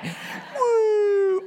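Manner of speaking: long, high falling whoo; sheepish high-pitched woo. Retold or imitated. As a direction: let out a drawn-out high woo. Embarrassed retreat in a retold joke.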